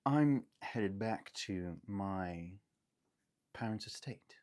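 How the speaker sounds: slow, refined lady of the manor; measured, proper young heiress; genteel lady. Acted. Heiress telling strangers in the carriage, refined. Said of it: "lady of the manor".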